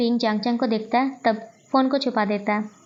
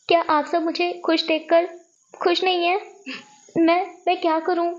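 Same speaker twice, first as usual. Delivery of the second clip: higher, halting, helpless protest; acted distressed plea; 5 semitones higher than usual. Son protests to his mother about an arranged marriage, distressed. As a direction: plead helplessly, pausing between phrases.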